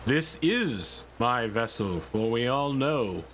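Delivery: slow, lightly voiced heroic god impression; a hint of a booming Norse hero, drawn out slowly; mock-grand Thor line, only lightly put on; Chris Pratt as Thor. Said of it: "my impression of Chris Pratt doing an impression of Thor".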